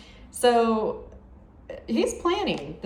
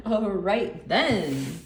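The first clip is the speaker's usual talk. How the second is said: "All right then" said again slowly through a laugh, rising at the end; laughing repeat; 3 dB louder, much slower than usual. Retold or imitated. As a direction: chuckle it out, amused and approving. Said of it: "Just these two alone are like".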